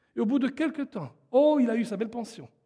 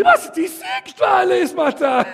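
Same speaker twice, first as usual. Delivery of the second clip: higher, fast, raised-voice quip; mock exclamation; 6 semitones higher, 4 dB louder, faster than usual. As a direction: blurt it out quickly for a laugh. Preacher quotes own joking exclamation. (exclamation rapide, pour rire)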